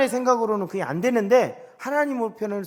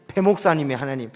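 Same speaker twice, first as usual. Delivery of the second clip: ordinary talk, nothing marked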